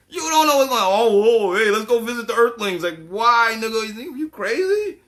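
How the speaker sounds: a mock-superior spaceman sneering down at you; haughty alien. Alien mocks visiting Earthlings.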